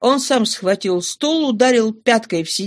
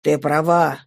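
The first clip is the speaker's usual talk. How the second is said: low, mild father's reply; meek tone; 5 semitones lower than usual. Acted. Father gives in to his rude daughter, meek tone. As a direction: give in gently, pitched low. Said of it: "отвечал отец кротким тоном".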